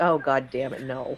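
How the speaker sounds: put-on deflated, disappointed, let-down tone. Retelling how Gabe reacted to the joke: imitating Gabe's disappointment. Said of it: "I heard the disappointment in Gabe's voice".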